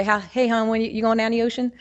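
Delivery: easygoing Baltimore hon talk, lightly done; casual local greeting with hon, Baltimore style; Baltimore dialect. Shown as a demonstration. Greeting Leslie about the beach, in light Baltimore dialect. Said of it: "I might be talking to Leslie and say".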